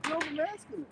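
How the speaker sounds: high-pitched mock accusation; mock scolding critic. Acting a critic mocking the preachers.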